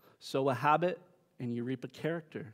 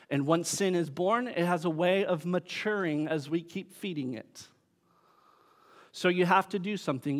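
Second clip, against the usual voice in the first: louder, raised preaching voice; emphatic preaching; 4 semitones higher, 6 dB louder than usual. Real, not acted. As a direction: press the warning home to the congregation. Preacher urges congregation to kill sin.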